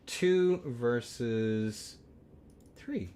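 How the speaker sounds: slow, drawn-out two versus three; drawn-out count. Real, not acted. Caster stretching out the matchup count, slowly. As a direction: stretch each word slowly. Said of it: "No, that's wrong".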